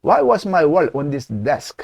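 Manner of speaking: slow model, "was" stressed, "desk?" falls; falling end. Shown as a demonstration. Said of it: "한 번 더". (따라 하도록 천천히 내리는 억양)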